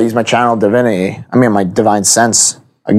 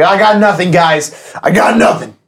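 lightly raised lady voice; a touch higher, playing a woman; man doing a woman's voice; 5 semitones higher than usual. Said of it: "my lady voice".

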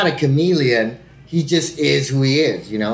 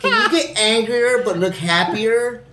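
laughing mockery of director; 7 semitones higher, slower than usual. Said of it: "that's literally what they want".

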